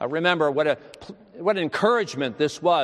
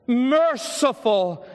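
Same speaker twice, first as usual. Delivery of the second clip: much higher, very slow, stretched word with a long fall; drawn-out earnest plea; 10 semitones higher, slower than usual. Retold or imitated. Dying boy echoing merciful, high and stretched out. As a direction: pour the whole soul into merciful. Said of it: "loud and full and most intense with earnestness".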